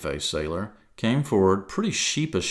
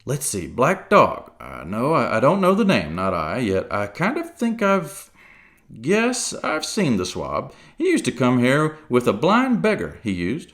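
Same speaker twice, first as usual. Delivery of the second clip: musing pirate; 3 semitones higher than usual. Acted. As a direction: think aloud like a pirate. Silver role.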